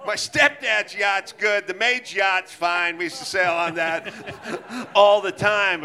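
lightly hammed-up spoiled rich kid; mimicking a rich friend. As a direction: toss it off like yachts are nothing. Voicing Bill's casual denial.

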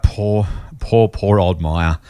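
a slow, low, hammed-up lament; mock pity. Host pities poor old Myer, slow mock lament. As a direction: drag it out like a mock eulogy.

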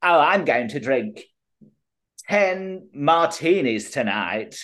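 lightly put-on celebrity voice; light impression, slowing on the drink order; a singer. Pub anecdote quoting a pop star, lightly put-on voice. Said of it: "And the singer says".

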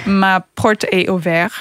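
slow, self-mocking French accent; a deliberately terrible French accent. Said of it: "this is gonna be a terrible French accent".

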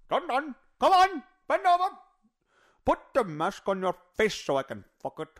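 doctor doing a mocking Indian accent. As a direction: bark it like the crude doctor voice. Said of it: "That means he's an Indian".

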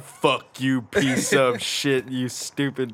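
slowed-down game voice. Retold or imitated. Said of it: "And watch it be like".

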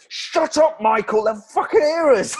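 sudden high, urgent hush; panicked whisper-shout at a dancer. Retold or imitated. Acted quote of Sam hissing.

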